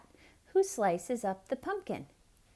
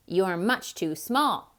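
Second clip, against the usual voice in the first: snapped; 5 dB louder than usual. Acted. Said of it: "snapped the cat".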